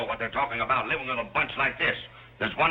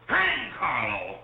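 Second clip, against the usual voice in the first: raised pitch, words heavily drawn out; exasperated outburst; 4 semitones higher, much slower than usual. Acted. Father fed up with wife's protégé Carlo, exasperated outburst. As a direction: explode slowly on both words. Father bellowing back at wife.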